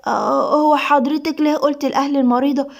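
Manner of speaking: hesitant, slightly uneasy question; flustered. Acted. Nurse questioning the doctor's lie, mildly flustered. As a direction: ask the boss with some confusion. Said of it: "صباح بارتباك".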